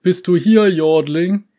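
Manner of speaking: high, loud searching call with a rising end. A narrator's reading. Uncle searching for his niece, calling out high and loud. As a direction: call into the fog for her. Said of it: "rief eine Stimme".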